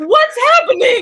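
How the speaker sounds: put-on very high, loud, tearful crying bewilderment. Retelling being told to do press right after a shower: re-enacted crying. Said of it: "I'm crying".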